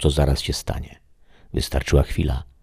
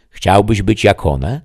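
higher, louder, slow tempting question; 6 semitones higher, 7 dB louder, slower than usual. Acted. The voice tempts the shadow to be a frog, slow and raised. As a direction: dangle the offer slowly.

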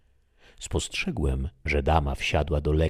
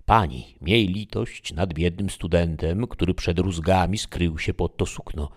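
raised-voice plea for mercy; pleading cry; 3 semitones higher, 4 dB louder than usual. Acted. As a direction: beg the lady, mildly urgent. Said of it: "zawołałem". (błagalne wołanie, lekko podniesionym głosem)

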